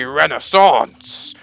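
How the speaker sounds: attempted French accent on Renaissance. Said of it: "try and do a French accent for Renaissance".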